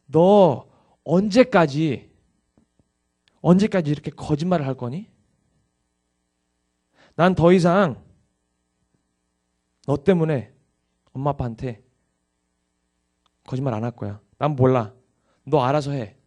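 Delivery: put-on angry, furious, tearful crying. Telling a congregation what his older sister said to him, imitating angry crying. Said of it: "막 화를 내면서 우는 거예요".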